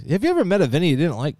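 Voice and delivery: normal talking voice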